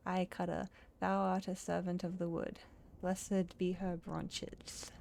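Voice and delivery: put-on lightly accented, solemn tree; riddling tree character. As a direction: recite the riddle with quaint gravity. Voices the riddling tree brother.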